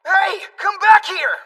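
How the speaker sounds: calling out. Acted. Calling after someone leaving.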